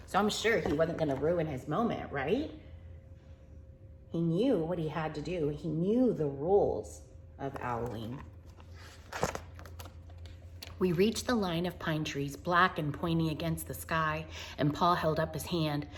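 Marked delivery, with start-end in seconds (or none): 4.1-15.9 gentle picture-book narration; storybook reading. Acted. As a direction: read it like a bedtime story.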